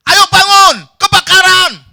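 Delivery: very high, full-force fire alarm yell; shouting. Acted. Friend warning sleeper of a house fire, shouting. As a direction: scream the warning at top volume. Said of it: "Li Tewa teriak-teriak".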